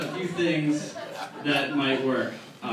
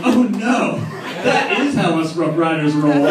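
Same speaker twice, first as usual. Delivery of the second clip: excited shout; 6 dB louder than usual. Retold or imitated. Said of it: "the Rough Riders are like".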